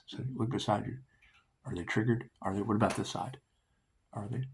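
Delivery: very soft, low-pitched murmur; hushed mock suspense. Reader teasingly checks who is triggered, hushed mock suspense. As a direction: keep it down low, as if testing for demons.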